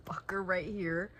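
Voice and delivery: hushed whisper of the words. Real, not acted. Showing the book to her viewers in a whisper.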